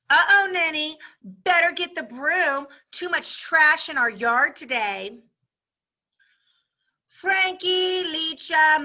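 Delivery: lively classroom read-aloud with voiced characters; story read aloud. Teacher reading a chapter to her class, lively read-aloud. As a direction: read it out to the class, giving each girl her voice.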